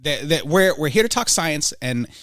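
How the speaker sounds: lightly voiced pundit, calm and lecturing; a hint of a condescending debater; Ben Shapiro impression. Ben Shapiro lecturing the host about yelling, lightly voiced. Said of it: "Ben Shapiro".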